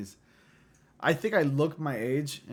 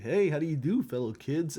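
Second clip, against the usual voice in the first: a bit higher, louder fake-cheery teen greeting; Steve Buscemi meme; 4 semitones higher, 3 dB louder than usual. Future self in school hallways, mock cheery greeting. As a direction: sound like an old guy blending in with teens. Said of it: "end up like, you know, Steve Buscemi".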